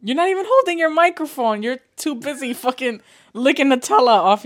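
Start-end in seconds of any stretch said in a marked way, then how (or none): none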